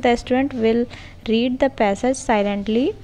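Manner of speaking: very slow, every word spaced for note-taking; slow dictation. Shown as a demonstration. Teacher dictating a model question to trainee teachers, very slow. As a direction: spell it out slowly so they can write it down. Dictates lesson plan text.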